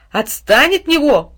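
put-on girl yelling at the dog to let go; scolding shout. A narrator's reading. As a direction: snap at the dog to stop. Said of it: "прикрикнул на пса".

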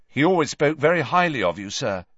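fast, eager flattery; quickly. Acted. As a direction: rush out the compliment. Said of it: "said Malfoy quickly".

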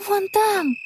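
high, hushed gasp of fear; breathed out. Acted. Connie spots the ghost, breathless gasp. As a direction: breathe it out in alarm. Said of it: "выдохнула она".

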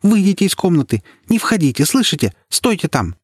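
high, urgent shouted warning; alarmed shout. A narrator's reading. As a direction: shout her back from the door. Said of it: "крикнула ей". (высокий, тревожный окрик)

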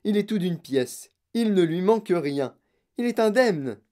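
gleeful proclamation; jubilant announcement. Acted. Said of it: "cria monsieur Wonka".

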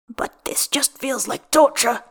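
slow, pained whisper; whispered complaint. A narrator's reading. Gale whispering through sore muscles during training, slow. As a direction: breathe it out, slow, through the strain.

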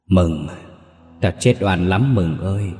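lightly voiced wailing ghost; ghostly voice. Murdered aunt's ghost calls Mừng from the gate, eerie and wailing. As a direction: moan it out like a grieving spirit. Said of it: "cái giọng ấy đầy ma quái".

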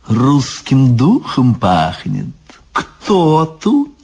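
slow, drawn-out suspicious voice; monstrous daughter. Acted. Baba Yaga's daughter sniffs out Ivan, suspicious. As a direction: stretch it, rising on the question. Усатая дочка Яги принюхивается.

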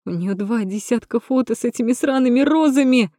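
high, angry burst ending on the word розами; angry yell. Acted. Natasha yells at Rom about the roses. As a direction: spit the words out.

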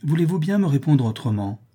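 a touch of exasperation; exclaimed annoyance. Acted. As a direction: demand a proper answer. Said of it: "s'écria madame de Lignol".

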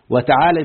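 وتعالى with an a vowel after the l; fatha on the lam in وتعالى. Shown as a demonstration. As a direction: say وتعالى with an open "la". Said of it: "بفتح اللام".

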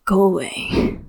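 whispered dismissal; tired man whispering his ghost away; quietly. A narrator's reading. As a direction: push him off in a whisper. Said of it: "Zhou Zishu says quietly".

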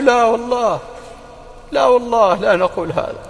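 high-pitched, heartfelt denial; earnest protest. Acted. Ansar answering the Prophet, earnest protest. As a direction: plead it out, pitched high and falling.

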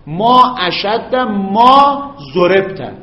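very slow, each word drawn out; slow dictation. Shown as a demonstration. Teacher dictating to students, very slow and clear. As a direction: dictate it slowly for the students to copy. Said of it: "دیگه نمیگیم ما اشد ضربک".

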